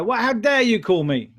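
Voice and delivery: loud, offended "how dare you"; indignant prospect. Retold or imitated. Annoyed prospect snapping at a cold caller, offended. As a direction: snap back like an annoyed person disturbed by a call. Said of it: "they go".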